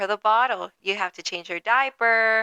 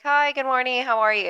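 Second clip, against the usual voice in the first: high, sing-song morning greeting; chirpy autopilot hello; customer service voice; 5 semitones higher than usual. Retold or imitated. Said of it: "I come in and I'm like".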